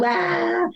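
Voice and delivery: high heartbreak wail "ah"; mock bawling over a breakup; imitated wail. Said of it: "yo pasaba por la tusa y yo".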